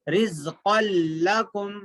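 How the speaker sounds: रिज़्क़ल लकुम with a long doubled l; merged lam recitation. Shown as a demonstration. Teacher showing how written qan is read, merged lam. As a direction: hold the l across रिज़्क़ल लकुम. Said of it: "लेकिन पढ़ेंगे कैसा?".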